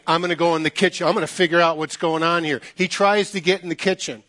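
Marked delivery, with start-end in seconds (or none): 0.1-2.6 fast, mildly indignant resolve; retold fuming. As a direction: rattle it off as an annoyed guest. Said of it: "he's fuming".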